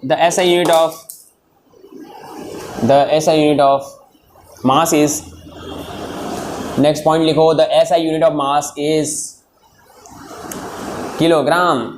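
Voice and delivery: chunked dictation with long pauses. Real, not acted. Teacher dictates the next point, halting dictation. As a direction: leave gaps so they can write.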